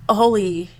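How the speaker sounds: "shit" bursts out very high and loud; shocked outburst. Retold or imitated. Mother recalling her shock at the daughter's words, a sudden high outburst. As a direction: let the shock crack out on shit. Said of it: "I was like".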